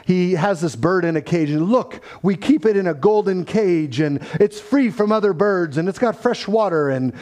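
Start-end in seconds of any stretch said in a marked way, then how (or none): 1.7-7.1 lightly mock-sincere, a bit higher; tongue in cheek. Director shows off caged bird in trailer, tongue in cheek. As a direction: present it proudly, tongue in cheek. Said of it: "there's a little tongue in cheek".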